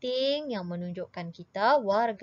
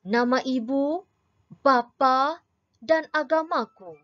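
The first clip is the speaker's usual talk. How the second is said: poem recitation; 5 semitones higher than usual. Shown as a demonstration. Teacher declaiming a patriotic poem for pupils, rising and stately. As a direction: declaim the poem proudly to the class. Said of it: "kita akan cuba baca pula sajak".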